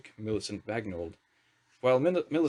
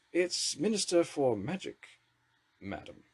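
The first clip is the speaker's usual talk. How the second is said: patient correction; 6 semitones higher, slower than usual. A narrator's reading. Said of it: "said Dumpledorn patiently".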